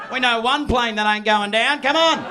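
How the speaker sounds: loud, hammed-up rallying call; mock rowdy cheer. Acted high-fiving passengers cheering boarding.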